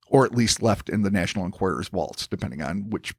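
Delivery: measured documentary-style storytelling; scripted narration. Acted. Podcast host reading the sphere controversy to his co-host, scripted narration. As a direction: read it out as a deliberate, articulate narrator.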